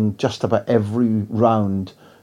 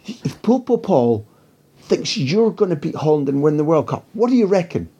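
a hint of a sharp, cutting reporter, higher; lightly voiced piercing question from the back, pitched up; razor voice; 5 semitones higher than usual. Mexican journalist calling her question from the back, lightly razor-edged. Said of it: "she's got a razor voice".

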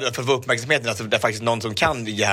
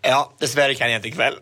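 quoted text reply. Retold or imitated. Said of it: "då fick jag tillbaka så här".

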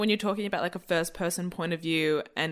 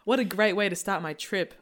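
sarcastic. Shown as a demonstration. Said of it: "Oh, that was sarcastic. Let me do another take".

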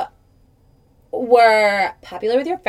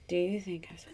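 put-on Valley Girl; 4 semitones lower, 15 dB quieter, faster than usual. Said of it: "like, Valley Girl?".

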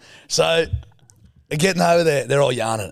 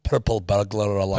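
put-on Scottish accent; 4 semitones lower than usual. Imitating Scots in a video, low Scottish accent. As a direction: lower Scottish tongue-twister. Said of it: "Scottish people trying to say".

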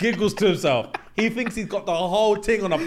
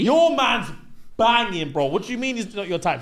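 louder, higher, hyped-up; excited girlfriends; 5 semitones higher, 3 dB louder than usual. Retold or imitated. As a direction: gasp at her in disbelief. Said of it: "All the girls said".

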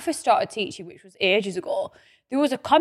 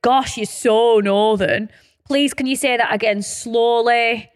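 slow, drawn-out quoted jibes; measured imitation of critics; mock put-downs; slower than usual. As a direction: recite the insults slowly and deliberately. Reading out put-downs about accents.

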